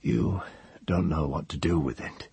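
hoarse, weak prisoner's voice. Acted. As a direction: rasp it out, throat dry. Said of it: "very hoarse".

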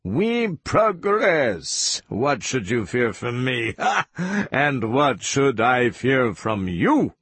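high, drawn-out opening with a laugh; crowing, mocking villain; gloating. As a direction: savor the triumph over your captive.

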